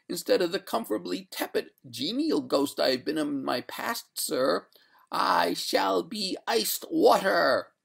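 quicken, then draw out the final threat; threatening ghost. A narrator's reading. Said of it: "cried the lady threateningly".

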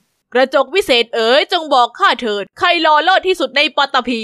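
grand mock-formal summons; king calling loudly. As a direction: proclaim to the magic mirror. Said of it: "แล้วพูดเสียงดัง".

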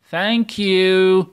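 teacher voicing the pupils' goodbye; loud class answer. Shown as a demonstration. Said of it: "نقول إيه".

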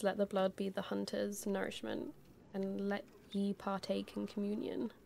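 low, soft item-description read; reading aloud. Real, not acted. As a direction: read the game text quietly to yourself.

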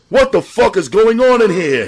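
high, loud, sharp yell; sharp angry shout. A narrator's reading. George bursting from the bedroom, shouting high and loud. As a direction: bark it out, startled and furious. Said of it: "he asked sharply".

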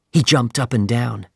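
ordinary delivery, nothing marked

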